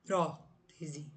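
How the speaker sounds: "prótese" low, weight on the first syllable; stress on PRÓ. Shown as a demonstration. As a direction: separate PRÓ from the rest of "prótese". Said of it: "Última, penúltima".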